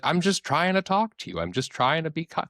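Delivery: retold wounded self-justification; mock offended. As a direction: imitate someone hurt at being called out. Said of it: "the person will get genuinely offended".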